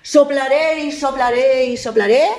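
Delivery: drawn-out big bad wolf threat; wolf threatening the piglet. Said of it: "Y el lobo dijo".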